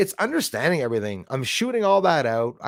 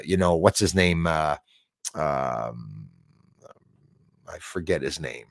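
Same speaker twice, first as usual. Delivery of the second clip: usual speaking voice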